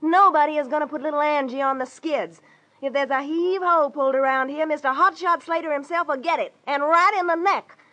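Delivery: tough dame laying down the law; angry defiance. Acted. Angie threatens, throws him out.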